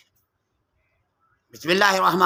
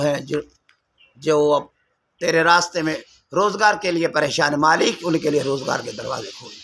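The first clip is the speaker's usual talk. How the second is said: earnest supplication, calling on God; prayer; 2 semitones lower than usual. Acted. Preacher leads the congregation in a closing dua, earnest.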